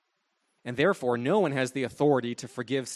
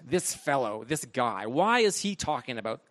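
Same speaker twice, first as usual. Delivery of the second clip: acted scorn, stressing the dismissive words; mock indignant contempt; contemptuous. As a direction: voice a critic's disdainful questioning, lightly played. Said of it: "Notice that tone of contempt".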